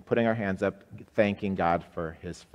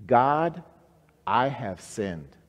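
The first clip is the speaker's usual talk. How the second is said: slow prayer response; 2 semitones higher, slower than usual. Shown as a demonstration. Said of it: "Say that with me".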